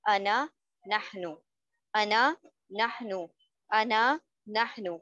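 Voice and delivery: measured table recitation, a pause after each group; repeat-after-me drill. Shown as a demonstration. Teacher leading students to memorise the table, repeat-after-me drill. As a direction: recite word by word, lilting up, then closing each set. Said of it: "साथ साथ हमारे repeat करना है".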